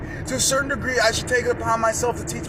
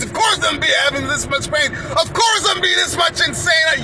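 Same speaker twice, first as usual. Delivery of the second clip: rising shout; 5 semitones higher than usual. Acted. Speaker ranting about chains and pain, rising shout. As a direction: build to a shout.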